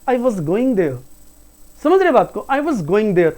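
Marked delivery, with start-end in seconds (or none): 0.1-1.0 "was" as short, light "wuz"; simple correct pronunciation. Shown as a demonstration. Teacher correcting the mistakes, simply pronounced. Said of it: "that is simply". 2.5-3.3 short "wuz" for "was"; lower, flowing phrase with brief "was"; correct pronunciation. Shown as a demonstration. Teacher checking students follow, correctly pronounced. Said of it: "तो इसकी pronunciation है I was".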